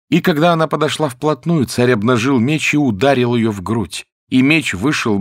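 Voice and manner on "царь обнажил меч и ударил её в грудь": plain reading voice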